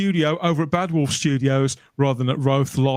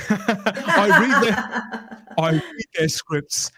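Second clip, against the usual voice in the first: put-on Welsh accent; 3 semitones higher, much slower than usual. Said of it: "So Russell says".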